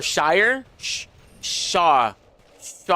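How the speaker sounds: trying out "Shire" different ways; halting attempts at saying "Shire"; unsure pronunciation of Shire. Shown as a demonstration. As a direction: sound out "Shire", then "Shaw", unsure. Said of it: "how to say it".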